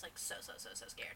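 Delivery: unvoiced, trembling-sounding whisper. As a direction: whisper it as if still scared. Whispered fear.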